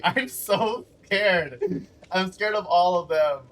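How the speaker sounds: mock-scared with a laugh in it; sarcastic mock fear. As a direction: pretend to be scared while clearly amused.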